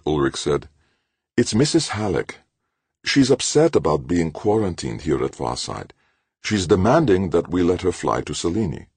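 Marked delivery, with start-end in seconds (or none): 1.4-8.9 high, pouting fretful voice; unhappy pout. A narrator's reading. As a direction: whine it like a worried old professor. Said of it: "With an unhappy pout".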